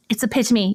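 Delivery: "epitome" as uh-PIT-uh-mee; four-syllable "epitome", stressed on PIT; standard epitome. Retold or imitated. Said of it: "English just come along and went".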